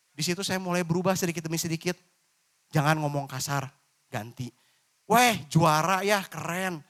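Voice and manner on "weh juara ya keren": cheerful praise. Shown as a demonstration. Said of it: "Ini contoh ya".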